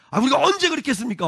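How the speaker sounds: high, quick indignant denial; snapped retort. Acted. People denying they despised God, indignant retort. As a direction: fire back as if wrongly accused. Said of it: "질문을 쏘아붙입니다".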